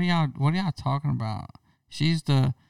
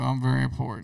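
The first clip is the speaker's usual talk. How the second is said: dinosaur voice; 5 dB quieter, faster than usual. Retold or imitated. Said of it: "Let me talk to Joe".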